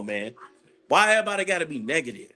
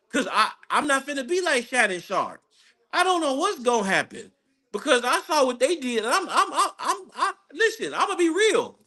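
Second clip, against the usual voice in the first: high, laughing through the words; real nerves breaking into giggles; nervous laughter; 7 semitones higher than usual. Real, not acted. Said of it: "I'm nervous about the next round".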